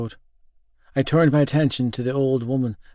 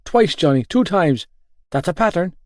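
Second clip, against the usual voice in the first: high, loud wail of complaint; distressed, raised-pitch protest; pained wail; 5 semitones higher, 3 dB louder than usual. A narrator's reading. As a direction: wail it at your friend. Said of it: "he let out a pained wail".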